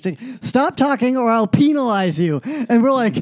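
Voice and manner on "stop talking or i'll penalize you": high-pitched mock New York teacher, PEE-nalize; crazy New York accent. Teacher threatens talking students, crazy New York accent. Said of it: "she had this crazy New York accent".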